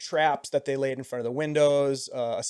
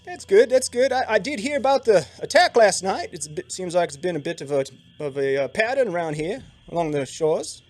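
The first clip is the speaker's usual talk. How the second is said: higher, louder Siluese guide voice; Siluese accent; 5 semitones higher, 6 dB louder than usual. Acted. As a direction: keep the Siluese guide going. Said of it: "You went all the way with that".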